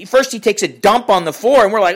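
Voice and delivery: usual speaking voice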